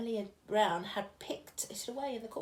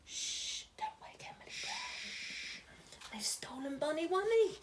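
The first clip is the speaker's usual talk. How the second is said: whisper; 6 semitones higher, 5 dB quieter than usual. Acted. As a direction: whisper so nobody wakes. Sneaking commandos in story.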